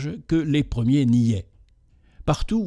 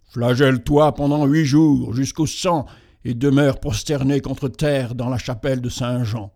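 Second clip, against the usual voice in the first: sepulchral voice. Acted. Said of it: "dit une voix sépulcrale".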